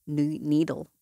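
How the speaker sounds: numb mouth slurring words; talking with a numb mouth; numb from the dentist. Real, not acted. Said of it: "her mouth is numb".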